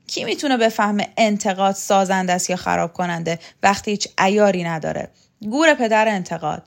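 a loud, sneering outburst; scornful scolding. Acted. Shokat scorning Vahab's talk of criticism, loud and sneering. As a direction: brush him off with contempt.

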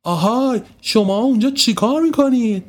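put-on a neighbour catching kids at it; calling out. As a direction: call down from the window.

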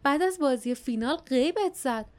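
high-pitched, accusing reproach; reproachful. A narrator's reading.

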